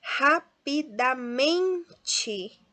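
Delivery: "Rapidamente" very slow by syllable, loud MEN; stress on men. Shown as a demonstration. Teacher shows students the strong syllable, slow "Rapidamente" stressed on MEN. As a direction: break up "Rapidamente" and swell on "men". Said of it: "o men é a sílaba mais forte".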